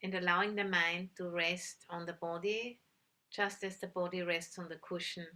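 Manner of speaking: calm, unhurried meditation guidance with long pauses; measured instructions in short, spaced phrases; guided meditation. Real, not acted. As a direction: guide listeners gently into stillness, leaving long silences.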